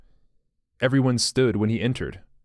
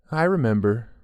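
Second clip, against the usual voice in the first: drawled. A narrator's reading. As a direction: drag it out, dazed and empty. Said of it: "but finally drawled".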